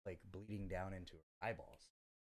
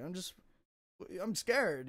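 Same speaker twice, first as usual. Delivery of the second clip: high, raised mock scared voice; a frightened girlfriend, voiced high; imitating her fear; 11 semitones higher, 7 dB louder, slower than usual. Girlfriend fleeing him, high mock scared voice.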